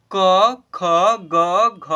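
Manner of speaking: crisp, clear reading of the letters क, ख, ग, घ; loud letter recital. Shown as a demonstration. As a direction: recite क, ख, ग, घ loudly like a teacher drilling letters. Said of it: "अंग ऐसे पढ़ते हैं".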